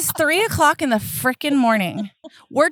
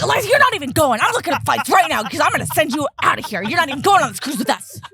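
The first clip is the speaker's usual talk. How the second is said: angry mom; 3 semitones higher, faster than usual. Retold or imitated. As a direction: threaten her, half laughing. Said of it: "I'm like".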